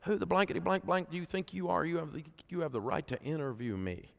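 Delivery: high, indignant mock tirade at the lady; angry retort. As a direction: snap back at the screaming wife in disbelief. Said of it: "I'm like".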